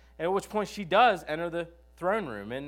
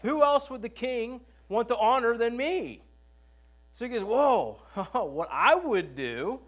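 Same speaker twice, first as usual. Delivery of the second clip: higher, louder self-satisfied Haman; smug Haman; 8 semitones higher, 4 dB louder than usual. Retold or imitated. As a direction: puff up like a vain courtier sure he's honored. Preacher voices boastful Haman.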